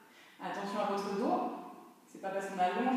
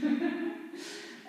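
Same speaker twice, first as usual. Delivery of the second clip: soft laugh; 6 semitones higher than usual. Real, not acted. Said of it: "Ça me fait rire".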